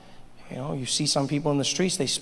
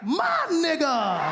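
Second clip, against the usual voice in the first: high, slow, stretched joyful shout with a laugh; happy shout; 12 semitones higher, much slower than usual. Retold or imitated. Comedians suddenly embracing Obama, high stretched happy shout. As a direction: hail him like an old friend. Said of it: "all of a sudden they were like".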